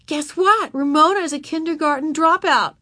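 amused, high-pitched gossip; giggly teasing. A narrator's reading. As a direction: gleefully share it, tipping into a little laugh. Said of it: "she giggled into the telephone".

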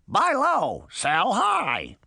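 very high squawking parrot. A narrator's reading. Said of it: "The parrot squawked".

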